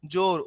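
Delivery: "জোর" with a lengthened o; long vowel. Shown as a demonstration. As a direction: hold the ও in "জোর". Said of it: "ও লম্বা হইছে".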